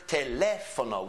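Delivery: "teléfono" with the LÉ emphasized; stress on second syllable. Shown as a demonstration. Teacher showing Spanish rhythm, stressed LÉ in "teléfono". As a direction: punch the "lé" in "teléfono". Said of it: "we emphasize a certain syllable".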